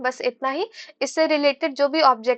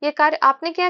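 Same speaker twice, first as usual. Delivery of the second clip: higher-pitched, disbelieving "आपने किया"; surprised question; 4 semitones higher, 3 dB louder than usual. Shown as a demonstration. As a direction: ask it in astonishment. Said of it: "जैसे पूछ रहे हैं". (आश्चर्य भरे प्रश्न के लहजे में)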